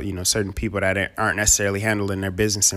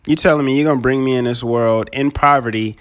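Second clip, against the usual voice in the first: laughing mock complaint; 3 semitones higher, 5 dB louder than usual.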